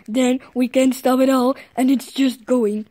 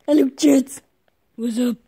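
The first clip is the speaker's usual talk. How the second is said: cute anime streamer. Pretend. Stream greeting to chat.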